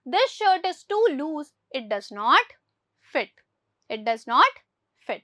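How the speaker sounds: very slow, word by word, for the class; slow dictation. Shown as a demonstration. Teacher reads the English example to pupils very slowly. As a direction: spell out every word for Hindi-speaking pupils. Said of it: "teacher reads the corrected sentence".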